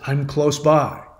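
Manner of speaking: slow echo at normal pitch; restrained, drawn-out echo; Echo repeating. Retold or imitated. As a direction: repeat it back slowly, without calling. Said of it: "Echo can only repeat what you've said".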